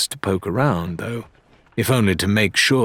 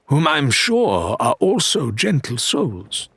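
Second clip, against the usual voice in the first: Faisal's smooth voice; 6 semitones higher than usual. A narrator's reading. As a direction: savour each word like a gracious threat. Faisal speaks.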